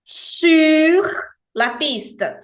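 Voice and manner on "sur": "Sur" higher and louder, final R clearly sounded. Shown as a demonstration. Teacher insists the R is heard, emphatic demo. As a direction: give "Sur" its full final R. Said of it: "o R final não é mudo".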